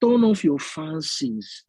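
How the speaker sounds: very slow, drawn-out teacher imitation; English teacher. Repeating the English teacher's blunder for a friend, slow mimicry. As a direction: spell out the odd phrase slowly, mimicking a teacher. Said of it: "this is my English teacher".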